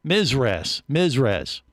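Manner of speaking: Mizres, with a z sound and no long i. Shown as a demonstration. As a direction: say Mizres like MIZ-ress. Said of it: "That's how he said it".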